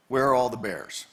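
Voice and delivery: a touch of annoyance in the question; mildly annoyed. Retold or imitated. Park visitor questioning the ranger, mildly annoyed. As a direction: ask it slightly peeved, imitating a visitor. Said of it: "With a little bit of annoyance".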